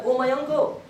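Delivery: retold calling out to an elder. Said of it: "he calls out".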